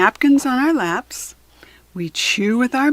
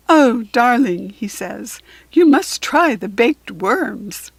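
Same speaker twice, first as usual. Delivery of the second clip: louder, hammed-up fancy voice; posh mock manners; 4 dB louder than usual. Lionel joking to the class with pinky raised, hammed-up posh. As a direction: play the snooty gentleman as a joke. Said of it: "Lionel holds up his pinky".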